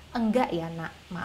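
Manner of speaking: low, calm parental no; composed, apologetic mother, acted; calm refusal. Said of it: "kita tenang, dan kita katakan".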